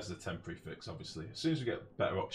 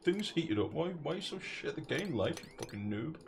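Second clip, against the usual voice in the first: higher mock-whiny heckler voice; mocking chat insult; 7 semitones higher than usual. Streamer mimicking chat heckling him, in mock whine. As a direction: parrot the chat's insults in a silly voice. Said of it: "That's what they say to me".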